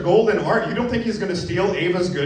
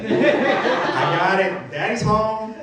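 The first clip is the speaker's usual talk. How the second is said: mock macho; 4 semitones higher, much slower than usual. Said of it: "something happens in my brain".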